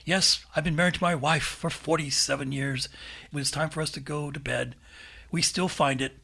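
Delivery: mock radio storyteller, pausing heavily; Paul Harvey. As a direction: hold back the punchline with hanging gaps. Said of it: "He just draws every word out".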